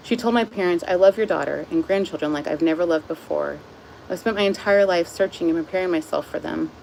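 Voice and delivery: steady audiobook-style narration; book reading. A narrator's reading. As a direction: read the story calmly to the viewers. Reads the chapter aloud.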